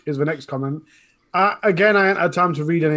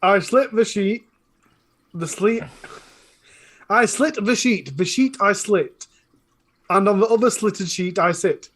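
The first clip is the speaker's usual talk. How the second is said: put-on posh, careful English accent. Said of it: "I put, like, a posh voice on to say that".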